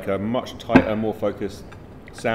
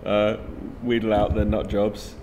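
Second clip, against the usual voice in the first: laughing while talking, louder; 6 dB louder than usual. Real, not acted. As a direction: chuckle through the words. Laughing about the nutters who answered.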